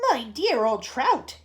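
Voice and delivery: cried out. Acted. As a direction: call out a slow insult at your sister. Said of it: "Aunt Sponge cried out".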